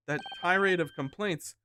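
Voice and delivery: loud, high, slow exclamation; acted astonishment. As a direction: build to a stunned cry. Character astonished at hearing own language.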